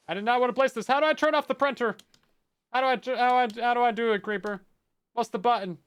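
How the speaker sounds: high, loud frantic yelling at the game. Real, not acted. Fumbling streamer yells at the printer mode. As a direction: shout it out, panicking over a keybind. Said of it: "I just felt like yelling".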